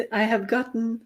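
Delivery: ordinary talk, nothing marked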